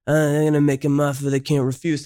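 flat, mumbled mob-boss line, lightly voiced; a hint of a droning Godfather; monotone mobster. Mocking a monotone mob-boss delivery, lightly voiced. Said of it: "like, monotone".

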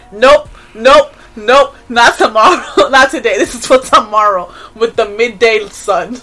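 loud, laughing "nope nope"; laughing refusal. Retold or imitated. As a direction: push it away while laughing. Refusing to hear the clip.

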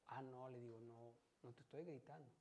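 soft, low retold denial; quietly imitating a calm reply. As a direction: play down the accusation, low and quiet. Retells calmly denying shouting.

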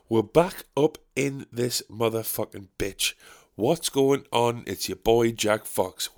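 put-on slow, swaggering old-school rap intro; lightly done eighties rap-song voice; eighties rapper intro. Shown as a demonstration. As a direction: drawl it like an eighties MC. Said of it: "When I talk like this, it sounds just like I'm making a rap song in the eighties".

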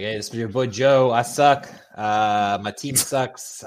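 mock Boston accent, playful. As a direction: do a hammy Boston fan voice. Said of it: "since I already did the Boston accent".

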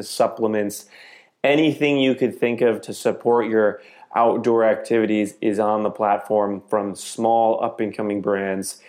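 even, measured host announcement; podcast promo read. Acted. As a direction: read a membership plug to your listeners. Host reads membership promo.

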